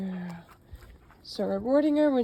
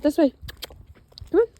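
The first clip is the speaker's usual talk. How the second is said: much louder, higher call; direction cue; 8 semitones higher, 8 dB louder, faster than usual. Real, not acted. Trainer turning her dog on the leash, loud call. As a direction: call her round firmly.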